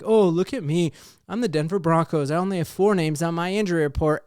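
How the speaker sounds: mock boasting, lightly sarcastic; sarcastic retelling. Host mocking a salty tweet about injuries, sarcastic. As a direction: play up a smug, sarcastic brag a little. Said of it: "in a really sarcastic way".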